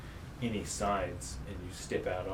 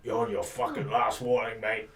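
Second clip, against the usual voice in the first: threat; 4 dB louder than usual. Acted. Guard threatens the player.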